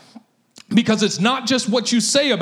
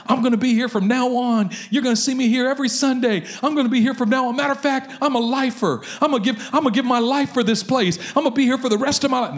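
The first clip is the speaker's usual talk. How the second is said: eager, fast and higher, mock joyful; retold excitement; 4 semitones higher, faster than usual. New convert promising the preacher he'll stay forever, hammed-up eager. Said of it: "There's all this joy on his face".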